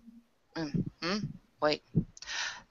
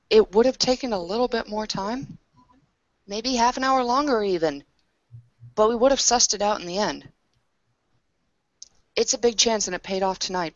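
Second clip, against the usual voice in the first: raised, forceful telling-off; louder, exasperated lecture to a partner; heated scolding; 5 dB louder than usual. Acted. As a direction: push back hard on her recklessness. Character scolds partner over risk.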